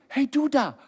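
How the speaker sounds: high, drawn-down hailing call. Acted. God calling to you and me, hailing. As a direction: hail someone from afar.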